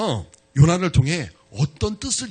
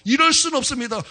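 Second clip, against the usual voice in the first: Jonah protesting louder; 7 semitones higher, 3 dB louder than usual. Acted. Jonah repeats his complaint.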